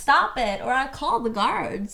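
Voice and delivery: slow, theatrical plea; mock damsel. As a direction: play a distressed lady in a period drama. Skämtsam dramatisk replik. (teatraliskt och långsamt nödrop)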